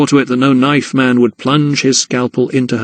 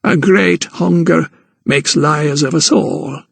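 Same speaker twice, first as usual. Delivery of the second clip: slow, lightly higher wise gran; sage old woman; 4 semitones higher, slower than usual. Acted. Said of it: "she said sagely".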